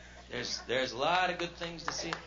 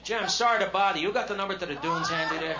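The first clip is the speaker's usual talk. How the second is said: apologetic late-night operator; 4 semitones higher, 5 dB louder than usual. Retold or imitated. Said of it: "it'd be information".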